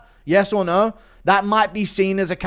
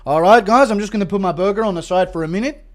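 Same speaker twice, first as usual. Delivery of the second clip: lightly voiced cooking-show host, louder and higher; hint of a chirpy presenter addressing the audience; Volk; 5 semitones higher, 5 dB louder than usual. Cooking host showing viewers his burger, lightly imitated. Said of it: "where Volk goes".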